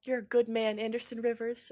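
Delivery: lightly voiced, hand on heart; heartfelt Clarissa. Clarissa thanking Anderson before vanishing, lightly voiced sincere. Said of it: "She touches her heart and she goes".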